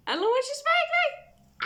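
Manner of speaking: high, slow, gushing show-off line; thrilled reveal. Real, not acted. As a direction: show off the gift, bursting with joy. Showing off a gift.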